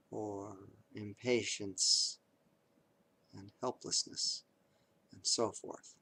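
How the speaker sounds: measured meditation guide with long pauses; guided meditation. Acted. Teacher guides listeners through noting reactions to pain, guided meditation.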